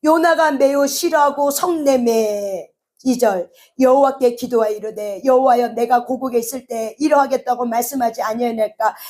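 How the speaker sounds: formal Bible reading, verse endings drawn up and held; scripture reading. A narrator's reading. Preacher reads Jonah's prayer to the congregation, scripture reading. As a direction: read scripture out in a steady declaimed voice.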